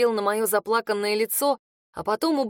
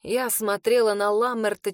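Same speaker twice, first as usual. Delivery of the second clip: plain reading voice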